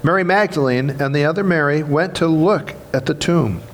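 measured, solemn Bible reading; scripture reading. Acted. Reads Easter Gospel passage aloud.

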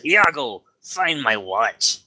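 pirate captain giving an order. Acted. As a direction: call the parrot like a pirate. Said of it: "And he says".

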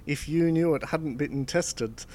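lightly hammed-up French accent, stereotypical banker. Telling how the French boss blames Alan, in a mild mock French accent. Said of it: "in a very French voice".

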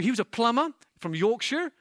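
a hint of a Yorkshire accent, self-mocking; lightly faked Yorkshire voice; bad Yorkshire accent. Shown as a demonstration. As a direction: try a quick Yorkshire accent on "plumber from Yorkshire". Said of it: "That's a bad accent, sorry".

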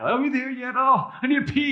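put-on high whining child in the back seat; whiny kid. Kid whining to parents on the drive to Disneyland. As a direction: whine like a bored kid on a long drive. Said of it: "imagine the parents driving your kids".

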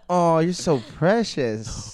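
solicitous. Pretend. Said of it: "treat her like a senile animal".

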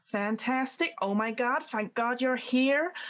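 lightly voiced breathless editor, slow on the end; gushing editor. GM voicing the magazine editor greeting the players, gushing. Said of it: "she speaks just like that".

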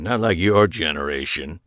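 a pointed dig. Acted. Old man chiding the younger generation, pointed. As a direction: aim it straight at the young man. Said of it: "he said pointedly".

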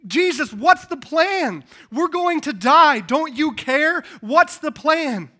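loud, high, desperate cry for help; panicked shouting. Acted. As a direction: yell like terrified disciples shaking someone awake. Acted panicked disciples shaking Jesus awake.

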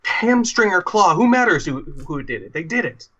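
a cornered survivor blurting the accusation in a rage; explodes. Acted. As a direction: burst out in anger, then trail down. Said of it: "The other survivor explodes and says".

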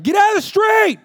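loud laughing shout; screamed. Retold or imitated. Dad yelling at his son to get out of the street. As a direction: yell it across the street at the kid. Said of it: "I screamed at him".

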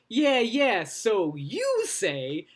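lightly mimicked dismissive impression, last words drawn out; Pizzazz. Host retells Jerica posing as a rival, mock dismissive voice. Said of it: "Jerica does this Pizzazz impression".

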